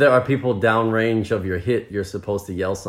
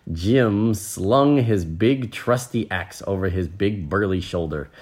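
story narration; slower than usual. A narrator's reading. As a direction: tell it with measured, lively phrasing. Reads the story aloud.

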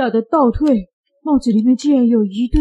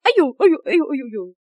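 ouch cries; 4 semitones higher, much faster than usual. Acted. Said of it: "又叫了一声".

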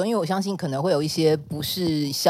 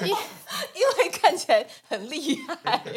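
laughing; 11 semitones higher than usual. Real, not acted. Laughing remark.

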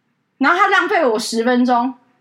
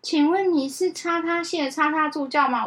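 slow mimic; 5 dB quieter than usual. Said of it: "而且他超慢哦".

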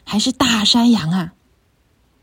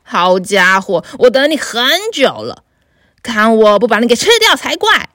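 troll roars; 4 dB louder than usual. Acted. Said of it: "大妖怪吼道".

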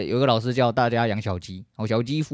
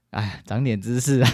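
ordinary talk

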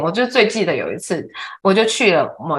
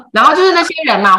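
laughing; 10 semitones higher, 7 dB louder, faster than usual. Real, not acted. Laughing while talking of friends.

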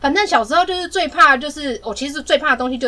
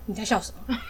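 calm question; 3 semitones lower, 11 dB quieter than usual. Retold or imitated. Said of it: "我很冷静的问她".

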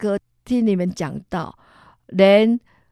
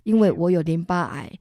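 begging God not to let her die, half-crying; tearful prayer. Retold or imitated. 向主耶稣祈求、哭着恳求别让她死. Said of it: "又哭了。".

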